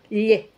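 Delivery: "L" said as "lle" with the tongue body; palatal lh. Shown as a demonstration. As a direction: squash the tongue to say lh. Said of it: "es con el cuerpo".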